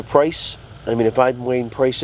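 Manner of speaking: talking between puffs; exhaling smoke while speaking; cigar in mouth. Real, not acted.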